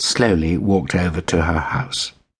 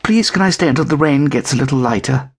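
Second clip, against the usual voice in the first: higher, polite little kitten; pleading kitten; 9 semitones higher than usual. A narrator's reading. Kitten begging to stay out of the rain.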